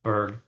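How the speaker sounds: Zberg said tentatively the German way; German pronunciation. Shown as a demonstration. Host guessing at an analyst's name, German pronunciation of Zberg. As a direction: try Zberg as a German surname. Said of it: "I guess if he's German, it would be a".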